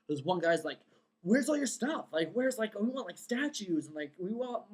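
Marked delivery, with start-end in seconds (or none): 1.2-4.7 demanding press man. Retold or imitated. Press man demanding decorations, voiced.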